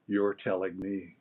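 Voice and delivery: low, slow ghostly murmur from behind; lightly voiced spirit, low and drawn out. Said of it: "just the tone of the voice".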